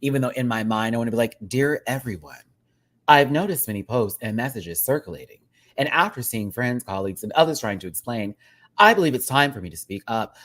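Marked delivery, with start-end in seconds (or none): 1.5-10.3 lightly robotic AI chat read; AI chatbot voice. Shown as a demonstration. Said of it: "read this in a robotic voice, like A I chat".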